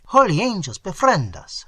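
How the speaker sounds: high, loud frightened exclamation; trembling fear. A narrator's reading. Frightened Italian calling on angels for protection, fearful cry. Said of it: "said the Italian, trembling".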